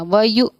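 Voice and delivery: व यु with a sharp glottal catch on the hamza; jerked hamza sakina. Shown as a demonstration. Teacher demonstrates the hamza sakina jerk in व यु. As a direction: stop the breath abruptly after व यु. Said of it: "इस तरह से हम इसको पढ़ेंगे".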